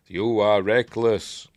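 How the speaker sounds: very slow, drawn-out scolding; each word stretched and stressed; mock rebuke. Yoda rebuking Luke, slow mock-stern imitation.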